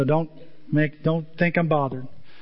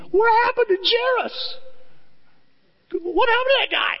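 high, far-off calling voice of Jesus; searching voice. Acted. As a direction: call out over the crowd, looking around.

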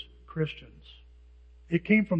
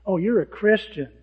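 mocking; 8 dB louder than usual. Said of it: "they start attacking what you believe".

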